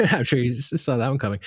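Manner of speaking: laughing through the words; amused laugh into the line. Real, not acted. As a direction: chuckle at your own joke. Interviewer laughs at own segue.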